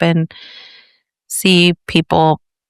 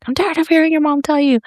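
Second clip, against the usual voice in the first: higher-pitched imitation of an exasperated father; mock fed-up dad; 9 semitones higher than usual. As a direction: act out dad finally losing patience. Mimics fed-up dad after hours.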